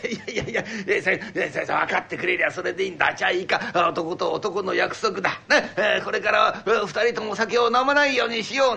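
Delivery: a lightly voiced old father, chuckling with relief; pleased old father. Father sealing the no-drinking pact with his son, chuckling. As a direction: seal it man to man, pleased.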